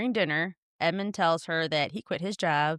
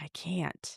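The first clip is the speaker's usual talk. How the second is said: put-on whisper, quieter; 8 dB quieter than usual. Retelling a scene where a man in a mask answers: imitating a whisper. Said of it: "And Edmund whispers".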